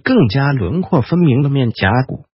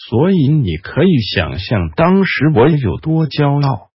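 coldly. Acted. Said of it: "雷斯林冷冷地说着".

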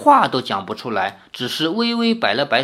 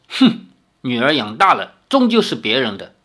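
grumbling huff; 3 semitones lower than usual. Acted. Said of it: "脸色一沉".

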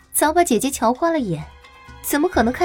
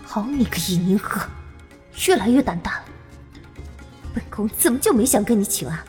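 angry; 4 semitones higher, 6 dB quieter, faster than usual. A narrator's reading. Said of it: "怒气直升".

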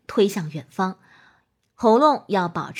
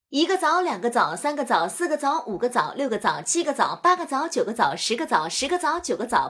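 lively rhythmic recitation; tongue twister drill. Shown as a demonstration. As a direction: count the dates with bouncing pitch. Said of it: "将数枣练习连做三遍".

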